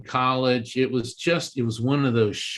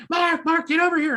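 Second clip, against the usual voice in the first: retold screaming. Retelling how the vendors called him over, mild mock yell. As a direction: pitch it way up like excited people calling.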